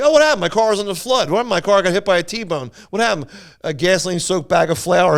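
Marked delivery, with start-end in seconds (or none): 0.0-3.3 mock insurance call. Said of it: "calling your insurance company".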